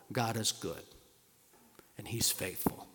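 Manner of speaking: low, soft, breathy whisper; whispered faith. Acted. Abraham's premise told to the congregation in a whisper. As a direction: whisper it like a private conviction.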